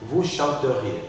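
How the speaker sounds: chanteriez as "chan-te-riez"; mute E pronounced. Shown as a demonstration. Teacher models the conditional for student, chanteriez with E articulated. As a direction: sound the E before -riez in chanteriez. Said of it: "je l'articule".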